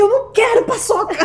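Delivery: high, loud mock wail; retold tearful outburst. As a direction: wail the refusal as if mid-cry. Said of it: "eu morrendo de chorar". (recusa chorosa e aguda, imitando)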